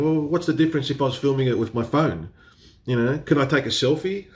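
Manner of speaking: cheeky questioning, pitched a little up; smart-ass retort. Retold or imitated. Retelling the bartender exchange, a mild smart-ass tone. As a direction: play it smug and innocent. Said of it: "I was trying to be a smart ass".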